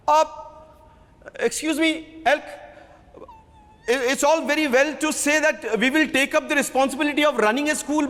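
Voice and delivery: a hint of a timid woman asking; woman piping up. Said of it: "a lone voice of a woman piped up".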